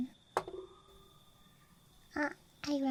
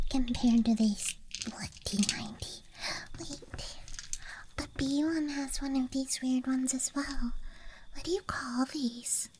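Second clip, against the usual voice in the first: ASMR whisper. Real, not acted. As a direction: whisper close to the mic. ASMR dice show-and-tell.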